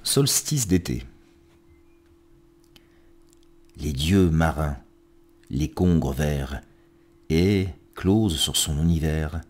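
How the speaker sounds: measured verse reading with pauses between lines; poetry recitation. Acted. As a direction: recite each line deliberately, letting endings fall away. Reads poems aloud on programme.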